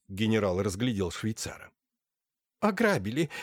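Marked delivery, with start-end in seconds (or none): 2.6-3.3 high, shrill, loud shriek; screeching wail, much higher; shrieking holy fool. A narrator's reading. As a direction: squeal it out from the armchair. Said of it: "снова завела Марфуша".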